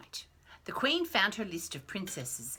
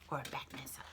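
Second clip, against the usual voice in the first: whispering; 6 semitones lower, 11 dB quieter, much faster than usual. Real, not acted. Whispered joking aside.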